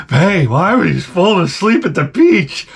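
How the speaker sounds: nagging wife. Retold or imitated. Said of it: "I get a guilt trip from my wife".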